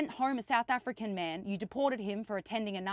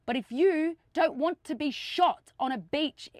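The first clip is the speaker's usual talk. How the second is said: impassioned appeal; 3 dB louder than usual. Real, not acted. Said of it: "I never speak like this".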